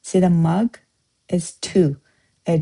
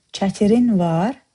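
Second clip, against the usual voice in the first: Çətirin var slow, çətirin stressed and rising; slow question, rise on çətirin; slower than usual. Shown as a demonstration. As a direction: ask it by stressing çətirin, slowly. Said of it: "We just emphasize the word we wanna ask".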